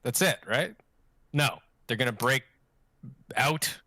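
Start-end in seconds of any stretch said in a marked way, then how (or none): 0.0-0.8 relieved viewer. Retold or imitated. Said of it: "you're like".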